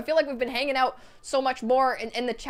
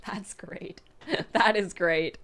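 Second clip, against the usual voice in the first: 1 laughing; 3 semitones lower, slower than usual. Real, not acted. Laughing at fish costume.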